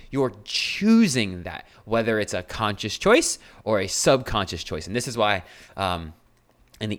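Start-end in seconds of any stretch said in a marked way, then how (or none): 0.1-1.7 choosing said slowly and leaned on; drawn-out emphasis on choosing; stress on choosing. Shown as a demonstration. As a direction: lean hard into the word choosing. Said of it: "I'm gonna emphasize the word choosing".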